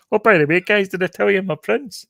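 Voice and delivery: lightly voiced, airy and casual; offhand prince reveal. Retelling the prince's reveal, mock casual. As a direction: toss off the big news like it's nothing. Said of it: "by going like".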